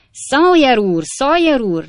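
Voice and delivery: high, loud screech from upstairs; piercing shout down to a lodger. A narrator's reading. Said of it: "rikácsolt egy hang a második emeletről".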